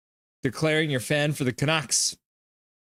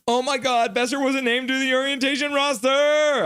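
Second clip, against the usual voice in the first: mock shock; 11 semitones higher than usual. Reading chat's shocking news.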